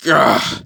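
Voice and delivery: mock groan on impact; acted "ugh" of pain; pained grunt. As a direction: grunt as if thrown into a wall. Villain hit into a building.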